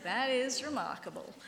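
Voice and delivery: dry sarcastic stress on is; a hint of sarcasm. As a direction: lean on is with mock wonder. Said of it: "it's so sarcastic".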